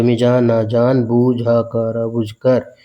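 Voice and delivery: slow, halting mock child reading; sounding it out like a small child; childlike. Teacher playfully sounding out the word like a child. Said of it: "एकदम बच्चा वाला feeling दे रहा है ना".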